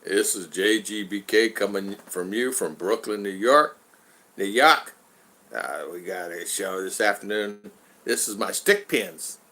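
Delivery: mild mock J G introducing his show; second try at J G. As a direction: imitate J G slowly, half-hearted. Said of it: "let's do it again".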